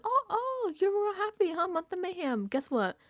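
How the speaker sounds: sneering host voice climbing to a loud jab; taunting villain. Retold or imitated. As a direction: gloat over them like a cartoon mastermind. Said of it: "he says to them".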